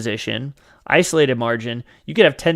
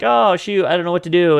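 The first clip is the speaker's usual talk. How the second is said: higher and louder, flustered and lost; mock panic; 4 semitones higher, 5 dB louder than usual. A new trader to viewers as the trade turns, hammed-up panic. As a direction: blurt it like a panicking beginner.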